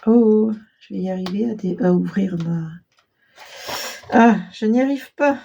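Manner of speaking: strained while forcing a tight fastener; straining effort. Real, not acted. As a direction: push the words out while straining. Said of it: "Elle est tellement serrée, celle-là, que je peux pas l'ouvrir".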